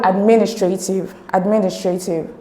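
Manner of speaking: administrative with MIN stressed; stress on second syllable. Shown as a demonstration. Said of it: "the stress is on men".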